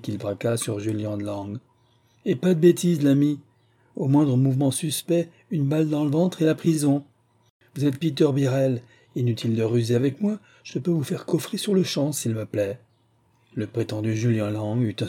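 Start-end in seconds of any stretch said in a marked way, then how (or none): 2.2-12.8 raised, menacing detective voice, louder and higher; a stern detective holding a man at gunpoint; threatening detective. Acted. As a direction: bark the warning over the pistol.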